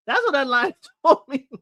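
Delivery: laughter breaking into the words; laughing. Real, not acted. Repeating the joke to viewers, laughing through it. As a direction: say it while cracking up.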